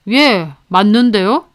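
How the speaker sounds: slow, mocking drawl; sarcastic reply. Boss sneering back at the mother, sarcastic. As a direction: sneer it out, unbothered. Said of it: "빈정거리며 그러더군요".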